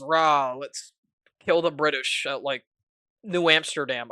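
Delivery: mock rally cry to the troops; hammed-up commander rallying pilots; rallying war cry. Commander rallies pilots with a loud mock battle cry. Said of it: "he gets rallied and goes".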